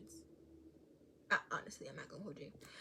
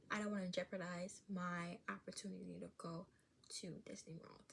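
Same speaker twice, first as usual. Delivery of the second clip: hushed, secret-wish whisper; 2 semitones lower, 5 dB quieter than usual. Real, not acted. Kid secretly hoping for the Disney trip, whispered. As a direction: breathe it like a secret.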